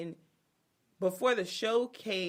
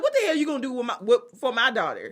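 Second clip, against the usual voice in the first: louder, higher mock demand; mock angry dad; 6 semitones higher, 12 dB louder, faster than usual. Dad confronting fiancé, laughing mock anger. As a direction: lean in with laughing menace. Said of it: "He was like".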